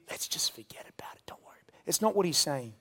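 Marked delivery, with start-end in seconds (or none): 0.1-1.6 softer, hushed brush-off; whisper. Acted. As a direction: wave it away in a whisper. Mock dismissive Christ.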